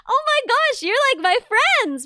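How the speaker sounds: high, slow starstruck gush; imitating fangirl gush. Streamer imitating herself meeting an Australian, starstruck. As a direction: greet a stranger as an old friend. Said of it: "I'm like".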